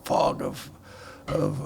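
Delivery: hushed ominous whisper. Retold or imitated. Describing poison fog ominously.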